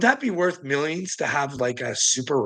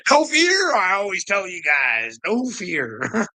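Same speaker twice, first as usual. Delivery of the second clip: playful shout that eases off; mock-heroic cry; 3 semitones higher, slower than usual. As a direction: burst out with a rallying motto, half joking. Shouts own motto after joking.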